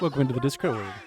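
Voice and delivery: laughing welcome. Real, not acted. Greeting chat, laughing loudly.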